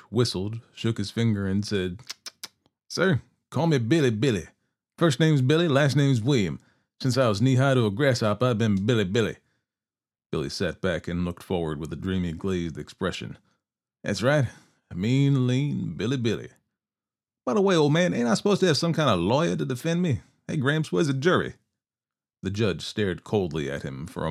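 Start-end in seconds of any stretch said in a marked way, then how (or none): 2.9-9.4 higher, louder cocky outlaw voice; a smug young killer showing off to the judge. Acted. Narrator voices cocky outlaw Billy. 14.0-21.6 higher, louder cocky outlaw voice; a smug young killer showing off to the judge. Acted. Billy taunts the old judge.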